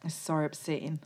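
softly mimicked Geordie catchphrase; imitated Newcastle accent. Quoting Jade from Drag Race, imitated Geordie accent. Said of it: "when she literally said".

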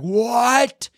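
What? jumps up high in pitch; stunned disbelief; amazed what. Retold or imitated. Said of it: "you're like".

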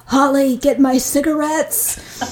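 high, drawn-out grandma call; grandmother impression. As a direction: call out slowly as a demanding grandmother. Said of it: "she would talk like this".

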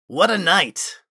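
high, bright exclamation; excited exclaim. Acted. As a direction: burst out with delight. Character exclaims after gala.

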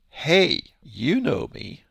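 loud calling-out "Hey"; yelling out. Retold or imitated. Jesus calling out to the temple crowd, mock yell. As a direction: call out over the temple crowd. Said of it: "So now he yells out".

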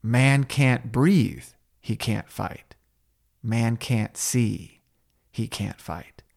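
lightly voiced sensei, slow and grim; quoting Terry Silver. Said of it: "we hear from the movie".

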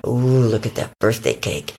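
low coyote voice; greedy coyote. Acted. Coyote spots the cake, low greedy voice. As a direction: coo low over a found treat. Coyote eyes the picnic food.

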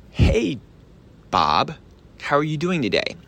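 spaced-out, high-pitched hey to a friend; chummy opener, pausing after the name; friendly greeting. Shown as a demonstration. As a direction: say it like you already know him. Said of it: "sound as much like you're a friend".

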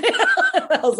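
slow laughing words. Real, not acted. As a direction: laugh through it.

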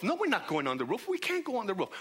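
objecting, pitch climbing on the refusal; protesting friend. Acted. One friend argues against climbing the roof, protesting. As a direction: balk at the plan in protest.

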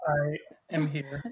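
very slow, low, grand pronouncement; dramatic slow declaration. Real, not acted. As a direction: announce yourself like a diva. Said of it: "Why did he say it like that?".

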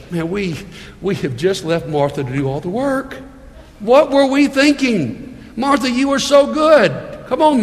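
a hint of sugary Southern politeness, lightly done; sweet Southern way. Pastor voices a polite Southern Jesus, mild sweetness. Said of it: "the nice Southern way of dealing with this would have been".

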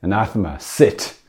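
snapped like a dog command; mock dog-training command. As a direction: order the dog to sit.

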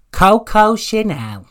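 high, slow glamorous name reveal; drawn out and lofty; posh announcer voice. Pretend. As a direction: announce it like a perfume advert.

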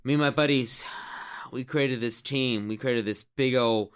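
swaggering team captain hyping the recruits; Zach Smith. Acted. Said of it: "not Jay Finn, Zach Smith, can you do that for us?".

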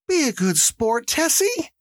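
high-pitched call at normal volume; mild calling-out. A narrator's reading. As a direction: call out lightly in a high character voice. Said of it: "Missus Delacroix called".

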